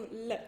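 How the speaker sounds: "L" as a bare consonant sound; som do L. Shown as a demonstration. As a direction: sound out "L" itself, tongue up. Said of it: "o som de L mesmo". ("L" puro, sem som de I)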